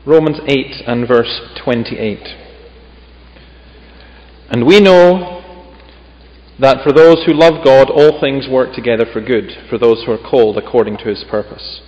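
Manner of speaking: measured, solemn Bible reading; scripture reading. Acted. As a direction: read the passage with weight, phrase by phrase. Reads scripture aloud.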